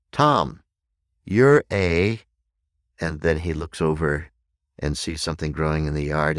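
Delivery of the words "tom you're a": put-on high, loud little-kid voice; little child. Little child looks up at speaker, high childlike voice. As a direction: call it out like a small child. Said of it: "this little child looks up at me".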